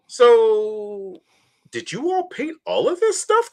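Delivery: high, playful self-imitation of asking; mock eager question. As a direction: ask it in a high, wide-eyed voice. Speaker quotes own question to staff.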